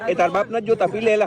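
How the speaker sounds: shout. Real, not acted. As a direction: call out, pushing him to drink up. Friends urging someone to drink.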